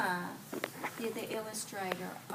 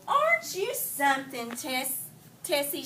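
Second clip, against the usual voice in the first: Mama's praise; 2 semitones higher, 5 dB louder than usual. Acted. Mama praises daughter in story.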